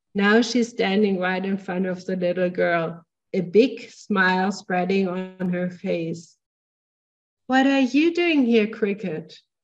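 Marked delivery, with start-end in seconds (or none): 7.5-9.4 tender, gentle voice with a slightly disbelieving tone. A woman speaks to a little girl standing in front of her, tender, slightly incredulous. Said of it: "she says in a tender and slightly incredulous voice".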